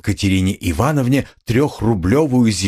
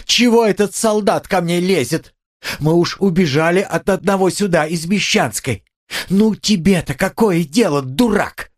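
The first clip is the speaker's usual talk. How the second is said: high, angry rebuke of the soldier; shrill scolding; 10 semitones higher than usual. A narrator's reading. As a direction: snap at him like an insulted lady. Katerina berates the policeman.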